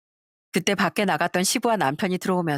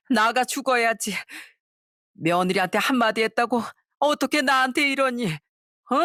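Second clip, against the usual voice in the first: 과장된 오열; 5 semitones higher than usual. Acted. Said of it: "오버하며 오열하기 시작했어요".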